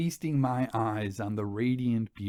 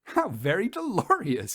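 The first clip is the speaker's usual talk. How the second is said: merry exclamation; 7 semitones higher than usual. A narrator's reading. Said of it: "she exclaimed with a merry laugh".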